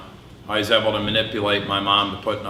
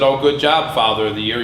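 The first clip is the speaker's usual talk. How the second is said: sarcastic; 3 dB louder than usual. Retold or imitated. Wife mocking him sarcastically.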